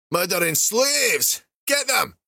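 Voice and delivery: slow cry rising to a high yell; alarmed shout. Acted. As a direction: raise the alarm. Guards spot the bloodied escapees.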